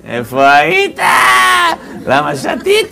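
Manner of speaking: mock wifely yell, jumping high at the end; scolding wife. Wife interrogating her drinking husband, hammed-up scolding shout. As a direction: play a wife's telling-off in a put-on voice. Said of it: "הרצאה של אשתי".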